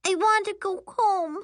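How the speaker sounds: put-on very high childish demand; high-pitched homesick child; little girl announcing. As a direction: declare it like a stubborn small kid. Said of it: "and announces".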